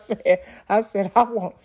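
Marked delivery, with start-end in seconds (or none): 1.1-1.5 snappy comeback. Retold or imitated. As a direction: fire it back with attitude. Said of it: "something I said that was snappy".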